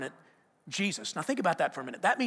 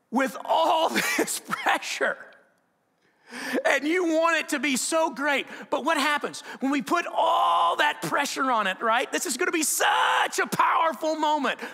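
rising pressure; 8 semitones higher, 3 dB louder than usual. Acted. Pressure of the big night.

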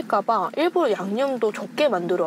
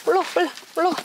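coaxing pet voice; 7 semitones higher, much faster than usual. Real, not acted.

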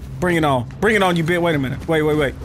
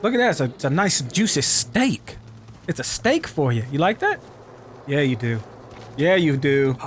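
coaxing an animal; 5 semitones lower, 4 dB quieter than usual. Pretend. Player offering a wolf a steak, low coaxing.

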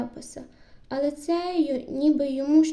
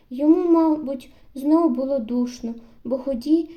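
usual speaking voice

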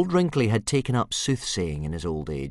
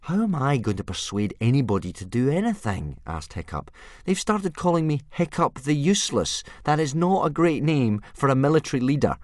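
put-on despairing boy; 9 semitones higher, 5 dB louder than usual. Hiccup voiced.

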